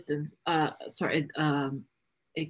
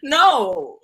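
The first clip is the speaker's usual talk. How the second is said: much higher, louder outburst; indignant no; 8 semitones higher, 10 dB louder than usual. Real, not acted. Answering whether women may breathe, loud indignant no. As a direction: blurt it out in disbelief. Outraged at email rules for women.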